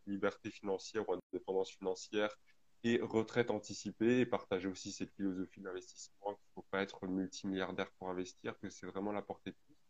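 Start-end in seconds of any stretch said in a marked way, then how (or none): none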